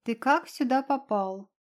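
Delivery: lightly voiced cat, indignant. Cat challenging the unseen guest, mildly indignant. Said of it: "возмутился кот".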